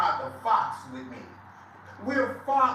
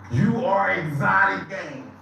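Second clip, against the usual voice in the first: slow, louder jab at a rival; mocking taunt; 6 dB louder than usual. Real, not acted. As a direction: spell the insult out slowly and loudly. Mocking rival on live stream.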